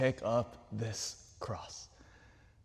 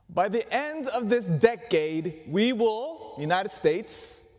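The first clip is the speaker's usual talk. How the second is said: imitating Kennedy; 6 semitones higher than usual. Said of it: "he said to the nation".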